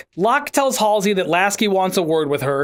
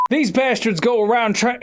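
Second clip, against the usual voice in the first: overdone Southern accent; dramatic, badly faked Southern character voice; Buck; 3 semitones higher than usual. Shown as a demonstration. Voice actor retrying Buck's line, hammed-up Southern accent. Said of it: "it's so Southern".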